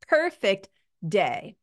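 slow, set apart as if in quotes; drawn out with audible air quotes. Real, not acted.

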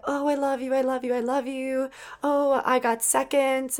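imitated doting Nana. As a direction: gush gently like a great-grandma hugging. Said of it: "she was just saying".

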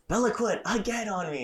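high whiny complaint to mom; whiny tattling. Retold or imitated. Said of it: "I'm like".

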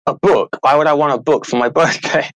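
imitating an unimpressed kid; mock put-out child, questioning the whole idea; eye-rolling disdain. Son balking at a book for his birthday, eye-rolling disdain. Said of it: "then he rolls his eyes".

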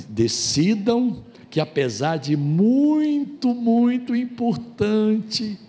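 deliberate preacher slowdown; slow emphatic point. Real, not acted. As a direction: stretch each word to stress the point. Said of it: "slow emphatic sermon point".

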